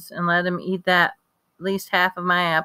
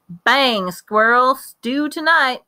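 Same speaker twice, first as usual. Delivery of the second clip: playful mock gunshot; 6 semitones higher, 4 dB louder, much slower than usual. Boy mimes shooting squirrel.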